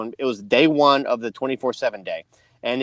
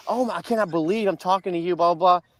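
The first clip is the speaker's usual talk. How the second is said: Dave LaGreca; 5 semitones higher than usual. Retold or imitated. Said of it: "he's very excited".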